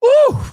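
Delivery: loud, very high "woo"; exasperated whoop. Real, not acted. Reactor after hearing her reasoning, exasperated high whoop. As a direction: let out a sudden high whoop.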